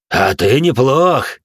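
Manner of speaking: high, slow mocking sneer; smirking villain. A narrator's reading. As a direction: sneer it out like a smug demon. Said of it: "усмехнулся этот кусок дерьма".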